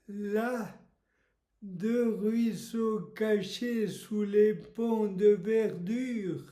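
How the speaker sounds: measured, understated poetry reading; poem recitation. Acted. Host reading Lamartine extracts for a title quiz, poem recitation. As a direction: recite the verse with spaces between phrases.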